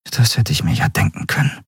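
a touch of sighing resignation. A narrator's reading. Woman learns her father sent him, mildly sighing. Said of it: "Endriel seufzte".

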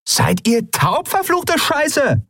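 high, drawn-out exasperated yell; shouted curse. A narrator's reading. Pirate woman cursing her deaf crew, shouting. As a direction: stretch the words out in a high yell. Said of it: "rief die Frau wieder".

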